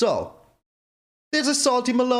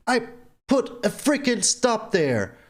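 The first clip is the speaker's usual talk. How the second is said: annoyed; 2 semitones higher than usual. Real, not acted. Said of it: "I'm freaking salty right now".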